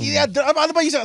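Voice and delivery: sudden upward pitch shift.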